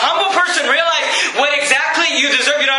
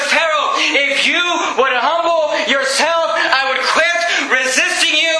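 God calling out; 4 semitones higher than usual. Retold or imitated. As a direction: call out to Pharaoh like a booming God. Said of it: "And God just says".

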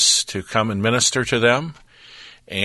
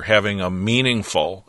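"meaningful" set apart with deliberate emphasis; stress on MEANINGFUL. Real, not acted. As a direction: lean on the word "meaningful". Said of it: "emphasis on the word meaningful".

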